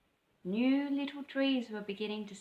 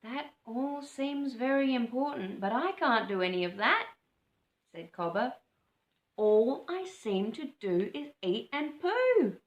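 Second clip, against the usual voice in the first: put-on lightly raised, glum young bird; Cobber's voice; 4 semitones higher, 5 dB louder than usual. Cobber telling the frog he can't do any of that, lightly raised. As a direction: up a little, a bit sorry for himself.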